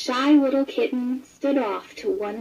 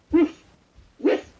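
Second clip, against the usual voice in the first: puppy bark; 7 semitones higher, 3 dB louder than usual. A narrator's reading. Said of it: "stopped to bark".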